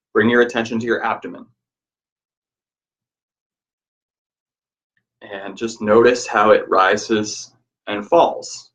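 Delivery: even, unhurried breath-guiding voice; guided meditation. Real, not acted. Teacher guiding listeners to notice the abdomen rising, guided meditation. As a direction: guide their attention gently, pausing between instructions.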